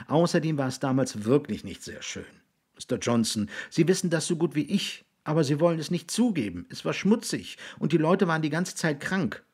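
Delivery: put-on high, insistent boy's voice; arguing boy. Raby contradicting William about the past, insistent.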